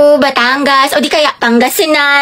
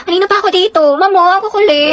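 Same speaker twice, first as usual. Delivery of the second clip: cutesy, slightly higher complaint; pabebe; 3 semitones higher than usual. Acted. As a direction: act babyish while grumbling. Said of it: "Ang pabebe". (pabebeng pagrereklamo)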